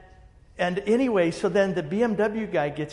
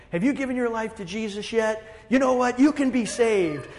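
higher, earnest pitch for salvation; eager evangelist; 6 semitones higher than usual. Retold or imitated. Young evangelist pressing the speaker at the coffee shop, eager imitation. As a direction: pitch Jesus like a zealous young preacher. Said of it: "he starts telling me".

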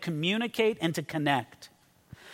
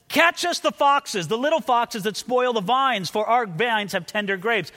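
raised, higher reading, easing off by the end; cried out; 4 semitones higher, 3 dB louder than usual. Acted. Verse called by the maiden's brothers, cried out. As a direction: read it out like a cry from the side. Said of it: "as if they hear this cried out from the side".

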